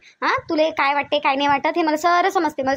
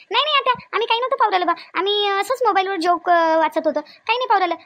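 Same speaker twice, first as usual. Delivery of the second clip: nervous excuse; 4 semitones higher than usual. Acted. Hiding phone from aunt.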